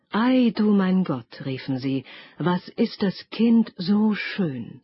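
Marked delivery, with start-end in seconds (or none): 0.1-1.5 slower, higher cry of amazement; drawn-out wonder. Acted. Dwarves marvel again at the girl, slow awed cry. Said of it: "schrien vor Verwunderung". 2.4-4.8 awed wonder. Acted. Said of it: "schrien vor Verwunderung".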